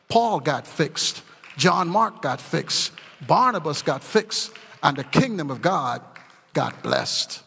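slow, weighty naming, each name landed; slow preaching litany. Acted. Preacher closing his sermon to the congregation with a slow, weighty litany of names. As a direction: toll out each name like a bell.

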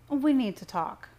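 lightly voiced mother, pressing him; pushy mother. A narrator's reading. Mother pulls her son in to talk, pushy.

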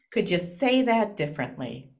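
even, gentle ask; calm. Retold or imitated. Mom gently asks her child to rephrase, calm. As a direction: ask it calmly, no blame. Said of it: "very calmly would say".

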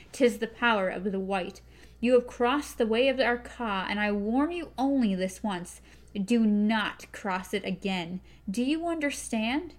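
a gunslinger's grim threat; stern gunslinger warning. Acted. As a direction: warn her coldly, every word weighed. Roland warns the witch.

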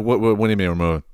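fast, stammering shock; flustered disbelief. Retold or imitated. Boy hearing they are moving, fast flustered disbelief. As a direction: trip over the words in surprise. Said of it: "I'm like".

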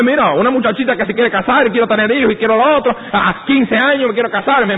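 high mock girlish voice; mock naive girl. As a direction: play a dreamy teenager wanting to marry.

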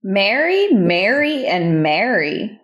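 "Mary, Mary, and Mary" sounded out one at a time; pronunciation test. Shown as a demonstration. Testing the quiz words aloud, each "Mary" pronounced deliberately. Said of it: "how do you pronounce the words Mary".

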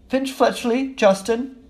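high-pitched roll call; calling out names. Acted. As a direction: call the next name to a crowd.

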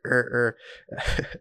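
two short mock grunts; imitated grunting. Showing how the panicking passenger answered, imitated grunting. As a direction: grunt like someone struggling, only imitated. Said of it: "He's just, like, grunting".

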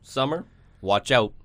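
slow, loud call-out; loud sharp voice. Pretend. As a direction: bellow a warning to summer. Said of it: "Why are you guys yelling at me?".

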